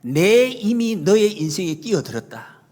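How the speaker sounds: slow, firm proclamation in the preacher's own voice; emphatic retold declaration. Preacher re-quotes the queen to the congregation, slow and emphatic. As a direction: proclaim it slowly, pressing on the first word. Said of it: "똑같이 비슷하게 딱 내밀면서".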